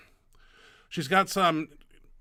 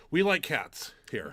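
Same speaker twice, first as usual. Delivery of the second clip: whispering; slower than usual. Acted. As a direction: whisper it like a secret. Conspiratorial aside about cats.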